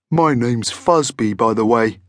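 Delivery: friendly monster voice; Fuzby. A narrator's reading. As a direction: introduce yourself as a genial monster. Monster introduces himself.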